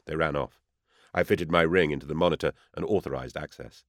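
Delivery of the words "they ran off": usual speaking voice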